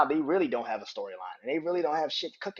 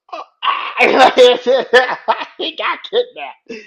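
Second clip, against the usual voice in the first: high, loud real laughter into words; helpless laughter raising the voice; laughing; 11 semitones higher, 12 dB louder than usual. Real, not acted. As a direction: crack up mid-retelling. Breaks up retelling Miz's reaction.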